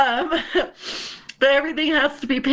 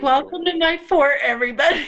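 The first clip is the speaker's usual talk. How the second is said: higher-pitched mock host greeting; show host welcome; 4 semitones higher, faster than usual. Retelling her bed podcast intro, mock host welcome. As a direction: welcome the audience in playfully.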